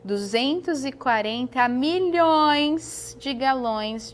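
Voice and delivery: slow, each number spaced out; staccato. Shown as a demonstration. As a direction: spell the figure out word by word. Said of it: "eu vou falar pausadamente o valor".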